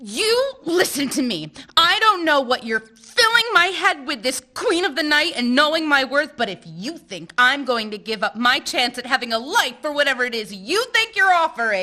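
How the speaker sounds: firm, heated telling-off; angry confrontation. Acted. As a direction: put him in his place, pushing on. Teresa storms in, confronts him.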